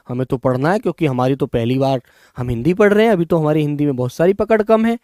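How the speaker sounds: eager student voice. Retold or imitated. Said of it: "अरे नीरज भैया क्या बोल रहे हैं आप".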